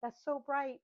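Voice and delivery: playfully shocked at bright color; mock alarm. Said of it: "and I'm like".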